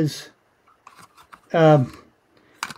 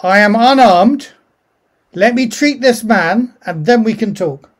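a touch of nervous pleading; nervous, pleading to be heard; slightly nervous; 4 semitones higher, 4 dB louder than usual. Acted. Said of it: "the slightly nervous voice saying".

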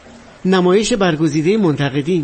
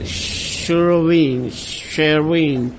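slow, lower attempts at "شروین" with American r; botched American pronunciation; 4 semitones lower, much slower than usual. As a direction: practise "شروین" haltingly, slurring it as an American would. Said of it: "گفت تلفظ درستشو بلد نیستم".

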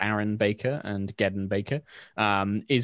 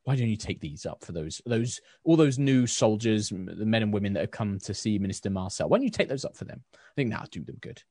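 kindly baker. Acted. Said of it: "she's just like".

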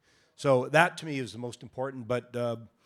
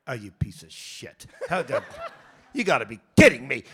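mock outraged yell; 8 dB louder than usual. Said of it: "everyone was going".

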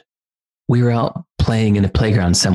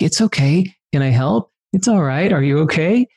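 imitating child comforting; 6 semitones higher than usual. Imitating son comforting a kid.

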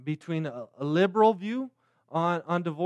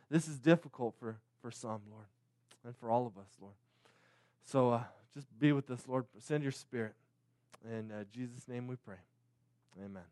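earnest prayer. Acted. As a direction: pray humbly before the sermon. Pastor opens with a prayer.

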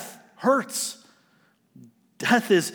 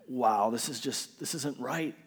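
depressed muttering; 4 dB quieter than usual. Retold or imitated. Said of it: "I was just depressed".

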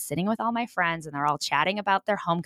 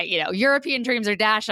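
ordinary talk

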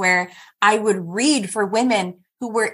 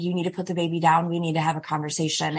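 retold calm command, lower and softer; calm and collected; 3 semitones lower, 4 dB quieter, faster than usual. Wife confronting her husband in a crisis, calm and collected. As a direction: keep it controlled, low and collected. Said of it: "I am very calm and collected".

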